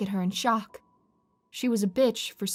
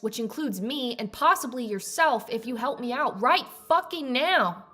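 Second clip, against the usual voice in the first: angry; 4 semitones higher than usual. Acted. Chief demands help, angry.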